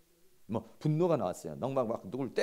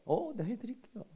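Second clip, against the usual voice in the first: sweetly obliging; 8 semitones higher, 3 dB quieter than usual. Acted. Models obliging reply to spouse.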